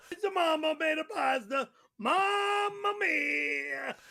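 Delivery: jolly Italian pizza chef. Acted. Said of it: "why is he so mad".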